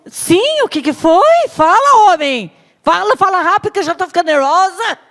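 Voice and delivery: high, loud, hurried wife; impatient Jezebel. Acted. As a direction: demand it, fast. Impatient Jezebel demanding answer.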